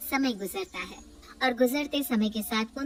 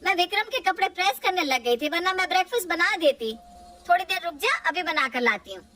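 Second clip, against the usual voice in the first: pleading mother; 8 semitones higher, 4 dB louder than usual. Acted. Mother asks Raghav to wait for breakfast, higher pleading. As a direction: beg your son to wait a bit.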